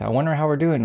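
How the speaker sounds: lightly voiced Trump, fishing for ratings; mild Trump impression; imitating Trump. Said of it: "and that's how he talks".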